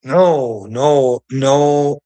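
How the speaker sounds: loud, fed-up "no, no, no"; real frustration, loud repeated no; loud exasperated no. Real, not acted. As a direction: shut it down hard and loud. Fed-up ranter shouting no.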